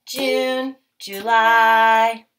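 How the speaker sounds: slow, drawn-out chant of the months; sing-song months. Acted. Teacher chanting the months for the class. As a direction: lead the child through the months.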